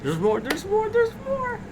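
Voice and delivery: rising excited call. Real, not acted. Excited calling out.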